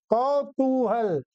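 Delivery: कौतूहल drawn out slowly with an au vowel; correct pronunciation. Shown as a demonstration. Teacher corrects pupils' kotuhal, कौतूहल said slowly with kau. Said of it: "कोतूहल नहीं है".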